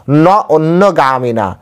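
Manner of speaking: ন অন্যগামিনা drawn out slowly, each syllable given its weight; slow recitation. Shown as a demonstration. Scene: preacher quotes the Gita verse to listeners, slow and deliberate. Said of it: "সেজন্য এখানে বললেন".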